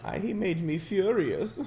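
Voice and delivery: words breaking into loud laughter; real laughter mid-joke; laughing. Real, not acted. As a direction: crack up mid-line. Laughing through mock line.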